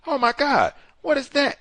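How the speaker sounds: high, loud imitated gasp of alarm; mock shocked cry. Bystanders spotting the burning car, shocked cry. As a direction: play the startled bystanders. Retelling witnesses' shocked reaction.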